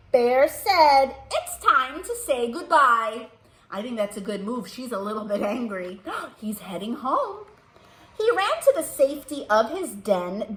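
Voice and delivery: put-on slow, even storybook reading for children; story narration. A narrator's reading. Librarian reading a picture book to kids, storybook narration. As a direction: read the bear story gently to little listeners.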